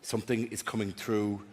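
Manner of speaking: low, hushed mock seance voice; imitated stage psychic. Psychic claiming contact with the dead, low and soft. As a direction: intone it softly, pitched well down. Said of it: "And he went".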